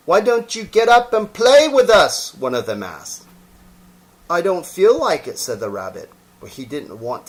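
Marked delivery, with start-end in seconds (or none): 0.1-2.3 high, loud, bouncy rabbit voice; wild rabbit. Acted. Wild rabbit coaxing the toy rabbit, high and bouncy. 4.3-5.4 higher, reluctant little voice; shy toy rabbit. Acted. Toy rabbit declining the wild rabbit's invitation, reluctant.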